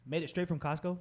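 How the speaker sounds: questioning correction. Real, not acted.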